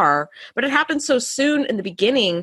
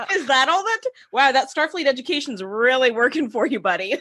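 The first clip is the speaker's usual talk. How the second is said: higher, mock-impressed sarcasm; sarcastic; 3 semitones higher than usual. Mocking the engineer's hand alignment, higher and sarcastic. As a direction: tease him, pitched up. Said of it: "I was like".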